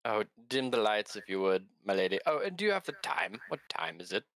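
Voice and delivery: Gaspar's salesman voice, posh and up; a smooth salesman's pitch. Acted. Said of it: "this is Gaspar's salesman voice".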